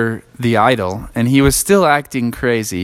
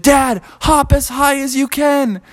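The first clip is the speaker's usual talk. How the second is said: Froggy voice; 14 semitones higher than usual. Acted. Froggy voiced in bedtime story.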